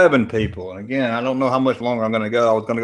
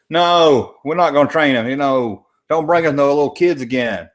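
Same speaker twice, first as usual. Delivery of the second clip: mock firm refusal; 3 semitones higher than usual. Streamer voicing the council refusing to train him, firm. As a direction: turn them down flat out.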